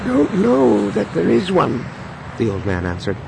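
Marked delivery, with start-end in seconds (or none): 0.1-1.8 put-on old man voice.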